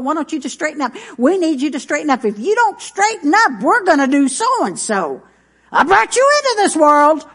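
scolding parent building. Retold or imitated. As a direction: ramp up the parental lecture until it snaps. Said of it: "parent's scolding builds".

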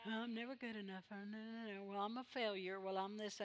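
soft, mopey mock self-pity. Preacher imitating a listener who hears the devil's condemnation, soft self-pity. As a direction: whine it quietly like a beaten-down soul. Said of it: "That's the devil talking".

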